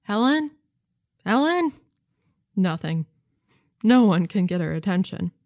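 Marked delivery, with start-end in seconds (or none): 0.0-1.7 calling out. A narrator's reading. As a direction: call his wife's name across the sanctuary. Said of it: "Mister Malloy calls out".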